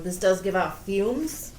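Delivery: muffled through a mask; words muffled behind a cover. Real, not acted. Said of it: "that was probably really muffled".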